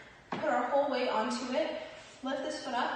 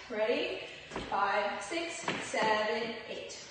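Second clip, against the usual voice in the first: calling dance counts. Acted. Calls steps while dancing.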